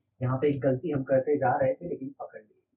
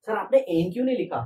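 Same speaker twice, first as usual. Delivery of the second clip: higher and louder pupil's question; eager student voice; 6 semitones higher, 4 dB louder than usual. Pretend. Teacher playing a student asking why n is missing. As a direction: challenge sir like a sharp student.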